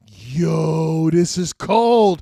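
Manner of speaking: impressed exclamation. Retold or imitated. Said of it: "I was like".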